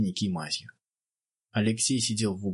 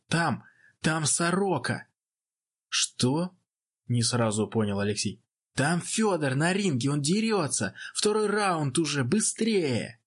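excited news; 5 semitones higher than usual. Acted. Cadet runs out with news.

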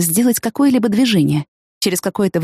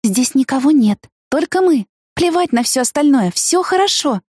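eager reassurance; 7 semitones higher than usual. Acted. Reassuring him excitedly.

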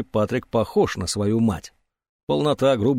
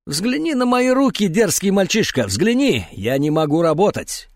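rasping, pitched up, shaking hands; rasping old man's plea; hoarse old man; 8 semitones higher, 3 dB louder than usual. A narrator's reading. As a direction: wheeze it out at the boy. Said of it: "захрипел".

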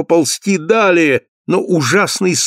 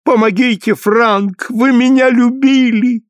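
desperate plea; 9 semitones higher than usual. A narrator's reading. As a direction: cry out to him in terror. Lucille screams for help. (Люсиль отчаянно зовёт Франка, голос очень высокий)

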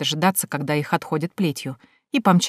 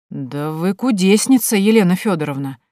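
drawn out. Acted. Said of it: "а потом протянул".

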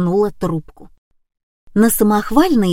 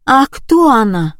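higher and louder surprised cry; exclaiming together; 4 semitones higher, 4 dB louder than usual. A narrator's reading. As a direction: blurt it out in surprise. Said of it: "хором воскликнули мы".

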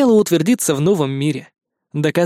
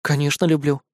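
smiling. A narrator's reading. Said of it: "улыбнулся Никитка".

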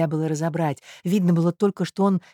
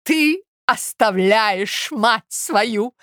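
high, slow, loud mock-tragic mother; high loud theatrical mother; exclaimed; 5 semitones higher, 4 dB louder, much slower than usual. A narrator's reading. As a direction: throw the reproach out theatrically. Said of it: "воскликнула Марья Александровна".

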